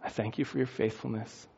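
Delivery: soft, low table grace; blessing prayer. Acted. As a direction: pray quietly and gently over the food. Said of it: "blesses it".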